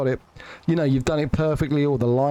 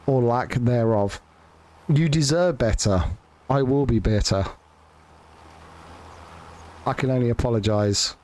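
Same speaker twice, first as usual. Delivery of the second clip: lower, mock-contrite sorry; insincere YouTuber apology; 4 semitones lower than usual. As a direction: fake a grovelling creator apology. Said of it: "YouTuber insincere apology there".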